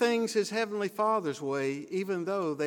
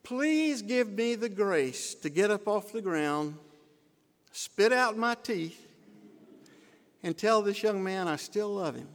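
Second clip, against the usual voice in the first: urgent prayer; 3 semitones higher than usual. Retold or imitated. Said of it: "I prayed as I shut my eyes".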